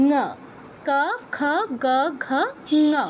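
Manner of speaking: ঙ as one syllable 'nguh'; Sanskrit velar row. Shown as a demonstration. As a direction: recite ক, খ, গ, ঘ, ঙ separately with short 'uh'. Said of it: "এই হলো কণ্ঠবর্ণের উচ্চারণ".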